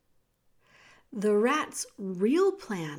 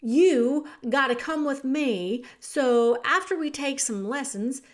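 shouted; 4 dB louder than usual. Acted. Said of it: "Meg opened her eyes and shouted".

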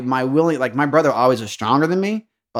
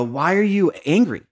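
lightly voiced caring father, raised pitch; loving father; 4 semitones higher than usual. Loving father going to his son, gently questioning. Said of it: "like a loving father going to a son saying".

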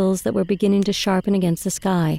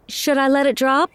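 higher-pitched question, calling back; 7 semitones higher than usual. Acted. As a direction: lift the voice as if asking from out on the water. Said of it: "Marjorie called back".

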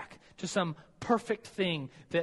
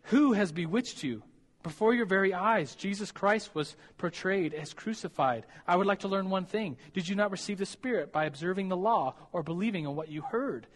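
lightly voiced exasperated Paul; mock scolding; 3 semitones higher than usual. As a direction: berate the Galatians like a fed-up apostle. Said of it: "he's calling them names".

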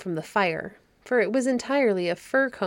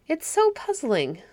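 slow, hesitant and higher; 7 semitones higher, slower than usual. Acted. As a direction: drag it out unsure, a boy groping for words. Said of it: "hesitating a little".

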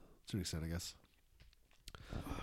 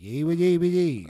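loud squealing ad-libs; playing both parts; 7 semitones higher, 12 dB louder than usual. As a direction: squeal the ad-libs like a hype man. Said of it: "he be doing both voices".

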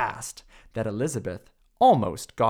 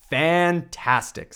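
excited praise; 4 semitones higher, 3 dB louder, slower than usual. Acted. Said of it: "said Elizabeth".

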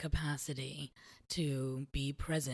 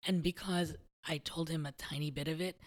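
ordinary delivery

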